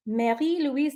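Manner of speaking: Mary Louise in a French accent, Louise as "lweez"; light put-on French name; playful French accent; mock French accent. Shown as a demonstration. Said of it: "I said it with a weird accent".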